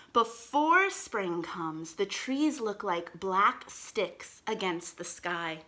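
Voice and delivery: slow storybook reading aloud; reading to children. Acted. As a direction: read it slowly to little kids.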